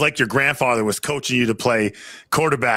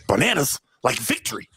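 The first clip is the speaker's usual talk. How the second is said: talking like Mac. Retold or imitated. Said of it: "we'd start talking like Mac".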